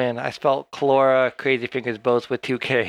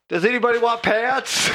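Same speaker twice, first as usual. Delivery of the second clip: slightly higher, silly call-out; mock offer; 8 semitones higher than usual. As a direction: hold up the pants and ask stupidly. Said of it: "just say".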